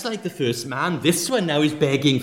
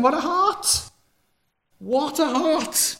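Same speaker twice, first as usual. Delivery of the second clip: ironic exclamation; 12 semitones higher, slower than usual. Real, not acted. Mocking the ungrateful servant.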